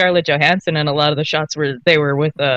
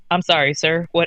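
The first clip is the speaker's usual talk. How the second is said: imitated startled manner. Retelling his reaction when someone started yelling on a call: imitating startled straightening up. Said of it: "and they yell and you, like, straighten up?".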